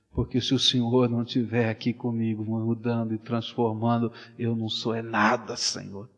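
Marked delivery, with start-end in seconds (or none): none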